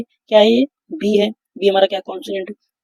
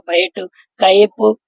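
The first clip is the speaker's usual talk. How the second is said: बैट and कैप said very slowly with an open ae; teacher spells out example words for the class, very slow; slow model words; 3 dB louder, much slower than usual. Shown as a demonstration. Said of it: "तो ये क्या हो जाएगा?".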